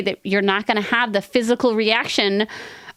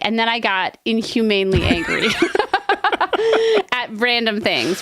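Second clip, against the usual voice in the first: laughing through a quote. Retold or imitated. Mocking the anxious inner voice.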